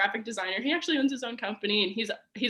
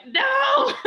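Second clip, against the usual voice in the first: a sudden high, loud cry of no, half laughing; mock no; 8 dB louder than usual. To the boyfriend leaving, a laughing mock cry of no. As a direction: blurt out the no you held back, laughing. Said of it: "I just wanted to be like".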